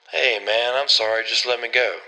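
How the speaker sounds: lightly acted nervous pleading; pleading captive. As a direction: beg lightly to be released. Caught thief pleads at gunpoint.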